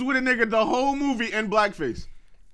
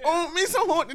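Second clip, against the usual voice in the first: higher-pitched imitation of an Asian accent; mock Asian accent; 6 semitones higher than usual. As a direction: imitate the caricature Asian voice mockingly. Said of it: "they don't sound like that".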